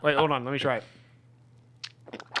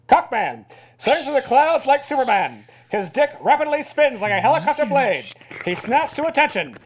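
put-on old-timey announcer; 3 semitones higher than usual. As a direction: boom it out like a vintage newsreel. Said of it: "Keep going".

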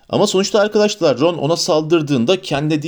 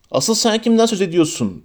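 exasperated; 7 semitones higher than usual. Acted. Exasperated retort.

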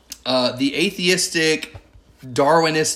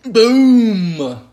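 excited; 8 semitones higher, 8 dB louder than usual. Real, not acted. Dramatic answer reveal.

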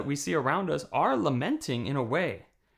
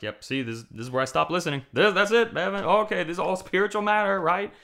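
mock sceptic; 5 semitones higher, 7 dB louder than usual. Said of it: "some of you are like".

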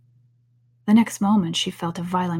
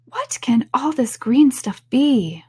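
lightly raised, slow puzzled voice; Alice, bewildered; 5 semitones higher, 3 dB louder, slower than usual. Acted. Alice looking down at green leaves, bewildered. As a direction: wonder aloud, drawing the words out.

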